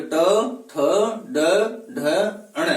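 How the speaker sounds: ट, थ, ड, ढ, अण singly, tongue curled to the roof of the mouth; isolated retroflex letters ट, थ, ड, ढ, अण, evenly spaced; retroflex consonants demo. Shown as a demonstration. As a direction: sound out ट, थ, ड, ढ, अण as retroflexes, pausing after each. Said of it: "मूर्धा से स्पर्श करती है".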